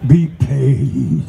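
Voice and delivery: slow, incantatory spoken-word delivery; chant-like poetry reading, stretching key words long; poem recital. Acted. Recites his poem Spiritual.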